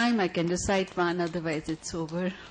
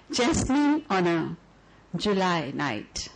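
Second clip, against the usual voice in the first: measured, lyrical poem reading; poetry recital. Acted. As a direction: read it like a love letter to the audience.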